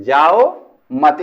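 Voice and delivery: "जाओ मत" stretched slowly up to the comma; comma after मत. Shown as a demonstration. Teacher marking the comma spot, slow "जाओ मत" then a stop. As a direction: say जाओ मत slowly as one unit, stopping after मत. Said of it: "यहां पे अल्प विराम लगा देंगे".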